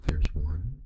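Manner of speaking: whisper in left ear. Shown as a demonstration. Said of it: "First one was in the left ear".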